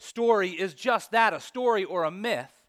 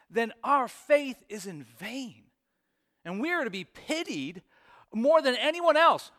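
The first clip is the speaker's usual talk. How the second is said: preaching Paul's words; 5 semitones higher than usual. Retold or imitated. Pastor voicing Paul writing to his readers, impassioned. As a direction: drive home how foolish it would be. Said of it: "he says".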